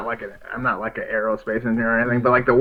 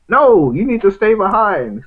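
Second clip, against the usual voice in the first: villain voice; 7 semitones higher, 6 dB louder than usual. Retold or imitated. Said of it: "he's like".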